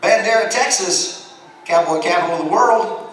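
light up at a familiar name; thrilled recognition; excited. Real, not acted. Excited recognition of hometown spot.

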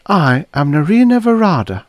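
high, loud declaration; emphatic self-introduction. A narrator's reading. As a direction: announce yourself with weight. She announces who she is.

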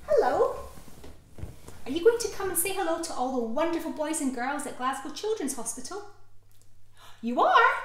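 put-on cheerful toy greeting sick children; puppet voice. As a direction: voice the cuddly toy brightly.

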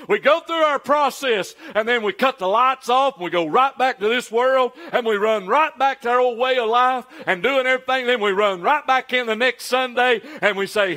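rolling, insistent sermon delivery; impassioned preaching. Acted. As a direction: preach it in one driving run. Preacher builds a rapid list.

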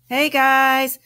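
high, drawn-out call from far inside; lost and hollering for the others; very loud voice. A narrator's reading. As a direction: call out slowly to be found. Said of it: "came a very loud voice".

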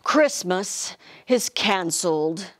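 low, slow, defeated; sad Santa. Acted. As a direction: give up on Christmas, slow and low. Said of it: "Santa said with sadness".

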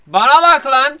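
angry. Acted. Angry customer calls the clerk.

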